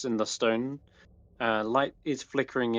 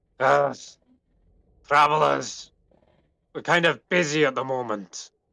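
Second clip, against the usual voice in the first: loud, bellowing dwarf voice; 3 semitones higher, 5 dB louder than usual. Narrator voicing a dwarf calling down from the gate to travelers: bellowing dwarven voice. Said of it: "you do hear a dwarven voice kind of bellow out".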